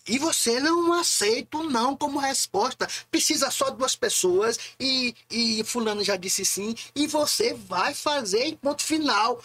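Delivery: high, emphatic no-refusals push; insistent ordering. Retold or imitated. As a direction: act out someone who won't take no. Acting out a friend's insistence.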